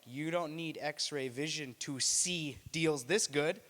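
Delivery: slow salesman delivery; ad pitchman. Retold or imitated. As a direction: sell it like a TV ad. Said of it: "Superman's like".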